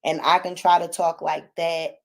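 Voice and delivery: low, level voice at normal volume; monotone demo. Shown as a demonstration. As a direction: hold it low and even. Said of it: "I can't talk monotone".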